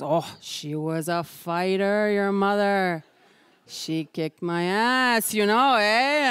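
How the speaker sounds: very slow folksy politician drawl; slow Prime Minister voice. Retold or imitated. The Prime Minister fondly recalls being beaten by her mother, very slow. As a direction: savour each word like an old politician.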